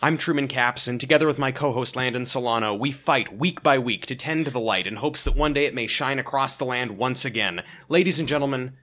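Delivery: grand trailer narration; epic narrator intro. Acted. Dramatic show intro over music.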